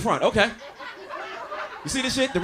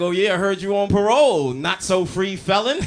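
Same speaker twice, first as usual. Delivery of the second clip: comeback jab; 5 dB louder than usual. Retold or imitated. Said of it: "I'm like".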